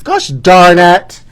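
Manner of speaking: hammed-up exasperation. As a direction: drag every word out in comic frustration. Exasperated over undelivered t-shirts.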